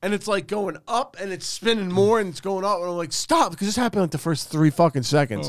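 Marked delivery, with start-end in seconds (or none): 3.1-3.5 short, high mock yell; retold yell. Rider trapped in spinning cage, re-enacted yell. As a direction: re-enact a desperate cry to stop. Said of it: "I'm, like, yelling to stop".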